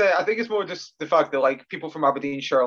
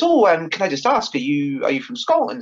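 soft English twang; 2 semitones higher, 4 dB louder than usual. Retold or imitated. Phone customer politely asking about Scotland, soft English twang. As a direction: imitate a polite caller with a faint English twang. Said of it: "like, an English twang".

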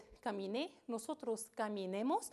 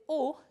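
o as a loud, held ó; stressed ending; 3 semitones higher, 9 dB louder than usual. Shown as a demonstration. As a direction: punch the vowel o. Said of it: "que lleva acento".

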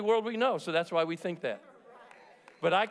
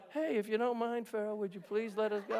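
softer, timid, polite plea; meek English Moses; 6 dB quieter than usual. Retold or imitated. Preacher mocks the English-accented Moses begging Pharaoh, soft and timid. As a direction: ask Pharaoh meekly, like a sissy. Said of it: "That English dude was like".

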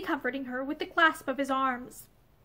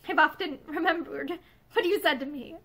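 brokenly. Acted. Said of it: "she went on brokenly".

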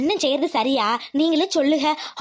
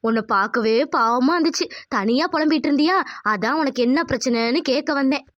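conscience voice; 4 semitones lower than usual. Acted. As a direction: speak as her inner conscience. Conscience character speaks.

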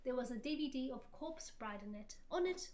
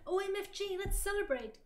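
high, loud excited squeal; hammed-up gleeful exclamation; gasped; 7 semitones higher, 5 dB louder than usual. A narrator's reading. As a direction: cry out in mock excitement. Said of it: "gasped Willow".

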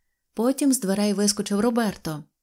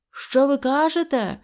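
raised, higher-pitched yell; shouted question; 6 semitones higher, 3 dB louder than usual. A narrator's reading. Train chief to deafened friends after the roar, shouting. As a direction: call it out as if deafened. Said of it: "щосили кричав начальник поїзда".

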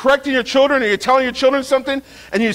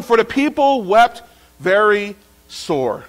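slow, solemn scripture voice; Bible reading voice; 2 semitones lower than usual. Shown as a demonstration. Preacher reading a verse aloud to the congregation, solemn. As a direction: intone it like reading from the pulpit. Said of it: "I said it in my Bible reading voice".

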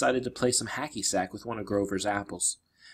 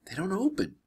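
higher, plaintive moan; 9 semitones higher than usual. Acted. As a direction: moan it helplessly. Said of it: "Grover moaned".

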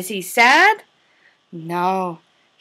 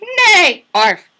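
loud, varied animal noises, squeaky high for birds; bark, bleat and tweet each animal in turn; animal sounds; 7 semitones higher, 5 dB louder than usual. Acted. Teacher voicing farm animals for toddlers.

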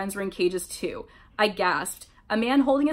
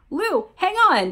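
high, drawn-out loud call; urgent yell; 10 semitones higher, 6 dB louder, slower than usual. A narrator's reading. Jeff to ensnared Lou, urgent yell. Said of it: "Jeff yelled".

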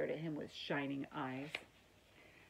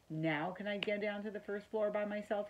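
put-on higher-pitched eager young mouse; hopeful, eager request; eager asking; 5 semitones higher than usual. A narrator's reading. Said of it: "he asked eagerly".

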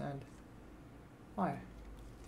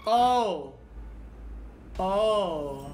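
giggly sneering imp. Acted. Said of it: "my voice is pretty impy".

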